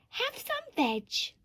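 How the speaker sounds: high, slow sing-out hoot; very high friendly storybook hoot. A narrator's reading. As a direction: hoot a drawn-out invitation. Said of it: "And they hooted".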